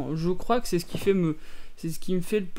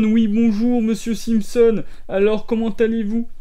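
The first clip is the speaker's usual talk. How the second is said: a hint of a talk-show host, louder and higher; mock TV host; 4 semitones higher, 5 dB louder than usual. TV host welcoming his guest, lightly voiced. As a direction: greet the guest like a TV presenter. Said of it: "ça fait genre présentateur télé".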